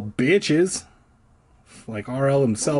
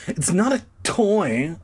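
scolding; 7 semitones higher, slower than usual. A narrator's reading. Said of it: "I scolded her".

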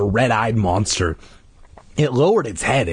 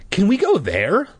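put-on high, eager child's plea; eager demand; 10 semitones higher than usual. A narrator's reading. Boy begging Dad to go, eager. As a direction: beg eagerly, pitched up high. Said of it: "Luke demanded eagerly".

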